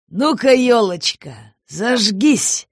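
slow, sly conspiratorial call; whisper-play like a tipsy Santa. Acted. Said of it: "заговорчески произнёс он".

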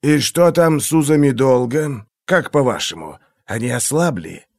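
silky, menacing interrogator; a cold torturer toying with his victim; menacing inquisitor voice. Acted. Glokta's held voice.

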